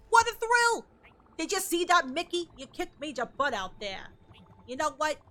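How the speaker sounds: lightly voiced cartoon character reading; a touch of a cheeky cartoon buddy; character dialogue. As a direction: read the game friend's lines with a light character voice. Reads game character dialogue.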